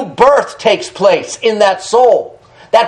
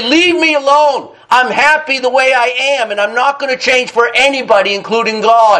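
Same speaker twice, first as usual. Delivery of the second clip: raised-pitch mimicry of a defiant refusal; retold stubborn refusal; 3 semitones higher than usual. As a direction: imitate a man firmly brushing you off. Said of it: "He'd say".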